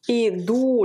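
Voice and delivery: idu with a long, stressed final u. Shown as a demonstration. Teacher showing learners where idu is accented, final-vowel stress. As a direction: lean on the last vowel of idu. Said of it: "l'accent sur le ou".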